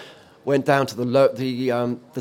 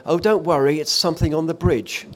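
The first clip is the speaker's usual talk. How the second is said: higher, squeaky reassurance with a laugh; 5 semitones higher, 4 dB louder than usual. Retold or imitated. To colleagues during the storm, a squeaky reassuring voice. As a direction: brush off the alarm in a squeaky voice. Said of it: "you can hear my squeaky voice go".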